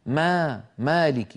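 "مالك" with a thin, fronted long aa; light alif. Shown as a demonstration. Teacher shows the corrected word, light alif. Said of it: "بل تقول".

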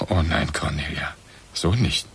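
low, cold hushed refusal; husband refusing, coldly whispered. Acted. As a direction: whisper a flat no.

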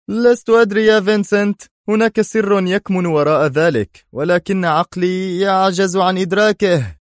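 furious that he can't figure it out; angry and baffled. Acted. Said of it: "في مزيج من الغضب والحيرة".

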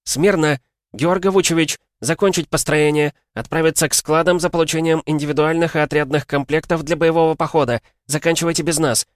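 high, loud snapped orders; barked command. Acted. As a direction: bark the orders at the squad. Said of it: "рявкнула".

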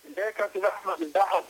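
muffled bluetooth headset mic. Real, not acted. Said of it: "الصوت مش واضح".

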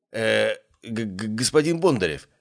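nervous stutter on the name; stammering. Acted. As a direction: stumble over it, flustered. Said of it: "заикался от волнения".

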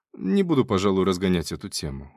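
ordinary delivery, nothing marked

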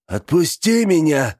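high desperate let-go cry; desperate demand. Acted. The old man fights Benedict's grip, a high desperate cry. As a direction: struggle free, pleading high and loud.

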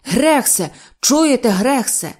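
loud, high summons; гучний оклик. A narrator's reading. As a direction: call out angrily for your employee. Директор горлає, кличе Грекса. (сердито гукає підлеглого)

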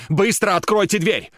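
very high, loud scream to open up; screamed demand. Acted. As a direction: scream the order. Tatiana screaming at professor.

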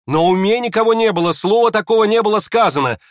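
high, loud protesting cry; exclaiming. Acted. Alexandra to her mother, loud protest. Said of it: "вскричала Александра Ивановна".

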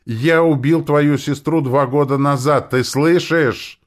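a madman shouting his confession. A narrator's reading. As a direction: scream the confession at her. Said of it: "продолжал кричать этот безумец".

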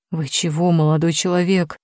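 a hint of a scared old man; babbling in fright. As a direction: stammer it out, frightened. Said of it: "залепетал гардеробщик". (испуганно лепеча)

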